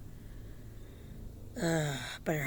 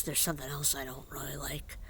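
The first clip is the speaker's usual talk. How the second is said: whisper; 2 semitones lower, 5 dB quieter than usual. Real, not acted. Complaint, whispered.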